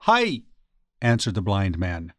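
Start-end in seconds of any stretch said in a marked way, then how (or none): 0.1-0.4 high, startled reply; frightened. A narrator's reading. Blind man answering a menacing stranger, frightened. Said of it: "frightened by the menace in the voice".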